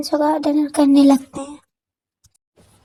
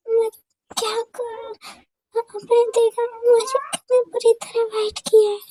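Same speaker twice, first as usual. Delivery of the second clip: higher, wounded, teary reproach; hurt and tearful; 8 semitones higher than usual. Acted. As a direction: cry out the hurt, not angry. (ऊँची, रुआँसी, दुखी शिकायत)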